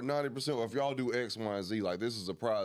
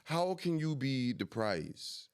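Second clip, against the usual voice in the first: London slang voice, higher; London roadman accent; 4 semitones higher than usual. Shown as a demonstration. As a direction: roadman accent, calling out the mandem. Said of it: "English accent, bro".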